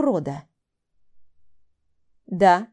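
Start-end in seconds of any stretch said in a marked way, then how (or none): 2.3-2.7 сдержанная злость сквозь сжатые зубы; процеди, еле сдерживая гнев. Acted. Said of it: "сквозь зубы сказала я". (цедит сквозь зубы)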